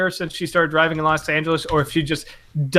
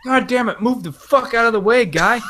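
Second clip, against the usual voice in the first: higher-pitched mock exasperation; inner road-rage grumble; 7 semitones higher than usual. Imitating own thoughts at someone in the way, mock irritation. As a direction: curse as if only in your head. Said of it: "in my head, I'm just like".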